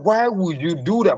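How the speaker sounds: high, incredulous exasperated question; exasperated why. Retold or imitated. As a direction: demand it in disbelief. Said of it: "I was too furious".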